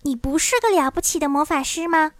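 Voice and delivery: high, incredulous question; lightly voiced indignant girl; exclaiming. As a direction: challenge him in mild disbelief. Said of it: "朵罗西喊道".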